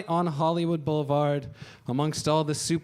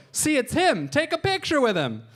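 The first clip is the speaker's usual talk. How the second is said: higher, eager pushing; excited dad; 11 semitones higher, 4 dB louder than usual. Retold or imitated. Dad urging his kid to take a photo, high and eager.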